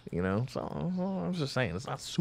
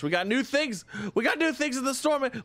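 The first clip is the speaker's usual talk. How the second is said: excited; 11 semitones higher than usual. Real, not acted. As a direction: gush about the new stock. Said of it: "I'm so excited".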